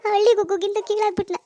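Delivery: humiliated, words following a sob; sob, then complain tearfully; crying. Acted. Daughter feels beaten by her rival, tearful. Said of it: "ಇಷ್ಟೊಂದ್ ಅಳ್ಬೇಡ".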